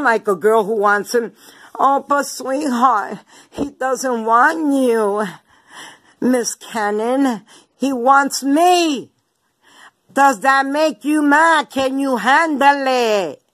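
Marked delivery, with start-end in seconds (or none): 1.8-13.4 slow, drawn-out sarcastic sweetness; slow mocking taunt. Real, not acted. Taunting her rival slowly, mock sweet. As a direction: savor each word to rub it in.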